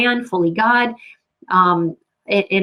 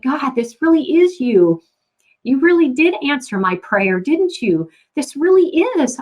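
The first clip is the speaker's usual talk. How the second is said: higher, elated thanks to God; overjoyed prayer; 5 semitones higher than usual. Retold or imitated. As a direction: lift the voice in joyful wonder. Joyful prayer after answered plea.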